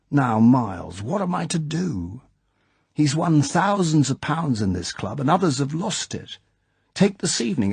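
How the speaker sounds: lightly voiced nervous aristocrat; anxious club chairman. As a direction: worry it aloud, begging for a way out. Basildon pleading with M for help.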